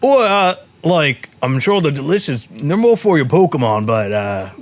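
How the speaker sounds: hesitant trader in loose mock Scottish; vendor's accent. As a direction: humour them in a wobbly Scottish accent. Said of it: "The guy looks at you and goes".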